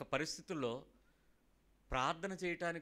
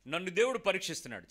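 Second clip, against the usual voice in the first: fast, loud declaration; 6 dB louder, faster than usual. Shown as a demonstration. Preacher leading the church to declare it, fast and loud. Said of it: "చెప్పండి ఒకసారి".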